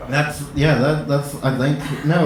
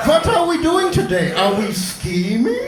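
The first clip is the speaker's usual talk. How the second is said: hammed-up schemer; 5 semitones higher than usual. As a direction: shout it like a cartoon plotter. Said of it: "Just like".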